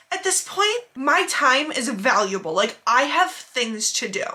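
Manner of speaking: slow, self-important mimicry; super rude customer. Customer lecturing the manager, slow and rude. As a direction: stretch each word with mock importance. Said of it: "Just being super rude to my manager".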